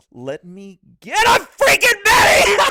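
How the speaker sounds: loud, high, slow shout through laughter; hammed-up panicked yell; imitating the officer. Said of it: "this guy gets an order".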